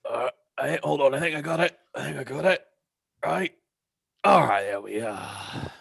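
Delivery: high, loud little imp straining at a latch; squeaky imp fiddling with the latch, pleased; imp creature voice. Acted. Imp struggling with the window latch, high and strained.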